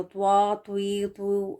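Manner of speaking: توا توی تو with rounded lips; wrong readings. Shown as a demonstration. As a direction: demonstrate the mistaken versions. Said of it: "اس طرح سے نہیں". (غلط پروننسیشن، ہونٹ گول کر کے)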